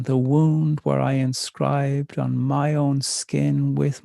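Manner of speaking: slow, measured spoken-word delivery; poem reading. Acted. Poet reading her alphabet poem to audience, slow and measured. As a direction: let each line land, unhurried.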